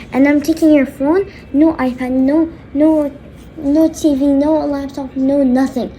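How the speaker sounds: firm, punchy list of bans; acted angry dad; stern scolding. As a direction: lay down the punishment item by item. Dad listing punishments.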